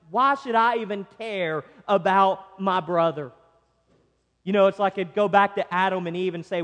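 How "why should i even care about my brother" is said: emphatic, dismissive mock indifference; sarcastic. Preacher voicing Cain answering God, sarcastic. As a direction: act out a sarcastic brush-off. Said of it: "he's just being sarcastic to God".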